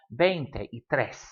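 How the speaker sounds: slow veinte y tres in separate words; broken into words. Shown as a demonstration. Teacher showing the three-word pattern, slow and separated. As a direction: keep veinte, y and tres apart, unhurried. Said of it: "stop and breathe in the middle".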